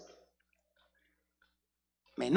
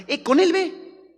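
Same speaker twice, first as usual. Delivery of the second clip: high, slow teasing push; mock slow punchline; 11 semitones higher, 4 dB louder, much slower than usual. Preacher teases the congregation with a slow high punchline. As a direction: tease them toward the admirer.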